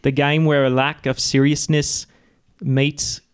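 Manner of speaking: put-on a botched Aussie accent drifting into British; mock Australian accent slipping British. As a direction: aim for Australian, land in British. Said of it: "oh, I'm British".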